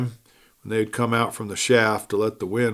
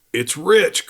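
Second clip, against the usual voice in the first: contagious enthusiasm; 5 semitones higher than usual. Acted. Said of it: "cried MacArthur with a contagious enthusiasm".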